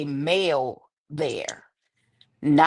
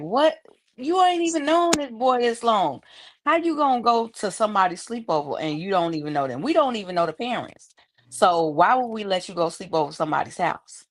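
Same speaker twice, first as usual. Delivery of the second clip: higher-pitched incredulous parent objecting; disbelieving parents; 4 semitones higher than usual. Retold or imitated. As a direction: retell it as parents balking, pitch up at first. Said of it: "me and his dad was like".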